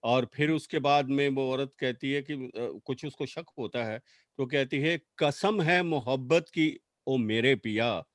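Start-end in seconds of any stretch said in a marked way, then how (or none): 5.2-8.0 poetry recital. Acted. Recites poem as pleading wife.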